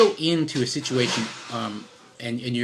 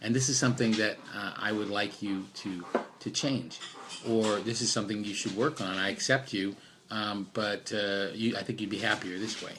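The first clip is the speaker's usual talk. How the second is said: gentle reassuring voice; 3 semitones lower than usual. Retold or imitated. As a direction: ease the listener into the request gently. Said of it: "If you go in and say".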